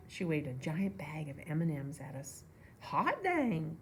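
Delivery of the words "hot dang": high, loud excited holler; little brother hollering at the sight of candy. A narrator's reading. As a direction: whoop it out running to the car. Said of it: "Toby hollered".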